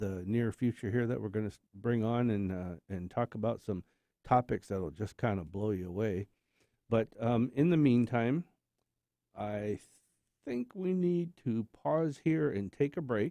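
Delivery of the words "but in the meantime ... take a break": very slow, deliberate, drawn-out words. Host pausing the show to take a break, talking very slowly. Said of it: "Why are you talking so slow?".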